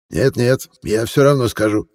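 lightly voiced cheerful old man; friendly old man. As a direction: gush like a sugary old gentleman.

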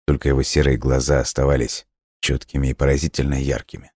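usual speaking voice

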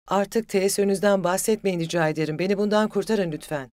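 indignant, forceful plea to stop; angry interruption. A narrator's reading. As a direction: cut in hotly, loud and high. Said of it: "hiddetle sözünü kesti".

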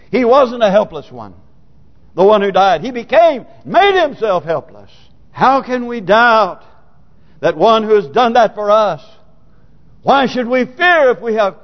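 emphatic phrases with pitch swooping up; impassioned preaching. Acted. Preacher asking why we should fear, impassioned preaching. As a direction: press each question on the congregation.

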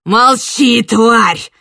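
loud, harsh bark; barked snarl. Acted. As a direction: snap at her to shut up. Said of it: "рявкнул Марьян". (злобный рык)

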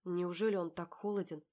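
ordinary delivery, nothing marked

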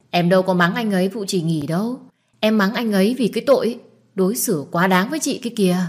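mildly heated protest on her sister's behalf; indignant justification. Acted. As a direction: defend yourself with a touch of outrage. Sister heatedly justifies scolding him.

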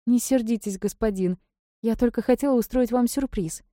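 a spoiled favourite sulking; capricious. A narrator's reading. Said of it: "капризно надула губки".

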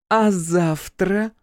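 put-on high, slow, loud drunken coo. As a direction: block his way with a tipsy leer. Drunk daughter presses him.

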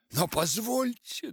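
loud, high outburst; shouted protest. A narrator's reading. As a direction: yell it in protest. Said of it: "а заорал я".

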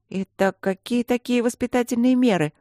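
high-pitched, strict questioning; stern inquiry. A narrator's reading. Student questions the guardians about their measures, stern. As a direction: demand an answer sternly. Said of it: "строго поинтересовалась Алинка".

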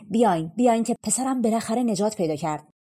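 king bursting with happiness calls his servants; overjoyed call. Acted. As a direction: call the servants in a rush of joy. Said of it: "از خوشحالی تو پوست خودش نمی گنجید".

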